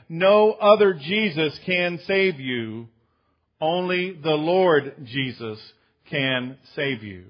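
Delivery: loud, slow, emphatic declaration; preaching at full force. Acted. Pastor proclaiming to the congregation, loud and slow. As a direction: drive it home from the pulpit.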